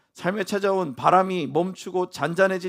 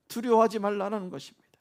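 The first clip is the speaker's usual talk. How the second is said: ordinary delivery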